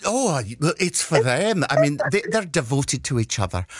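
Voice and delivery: lightly voiced Scottish lady accent; gently put-on character voice; Mrs Doubtfire. Prank caller to dog groomer, a light Mrs Doubtfire. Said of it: "my very best, Missus Doubtfire".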